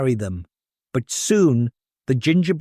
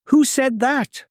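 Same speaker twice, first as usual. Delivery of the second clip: put-on surprised old woman; 11 semitones higher than usual.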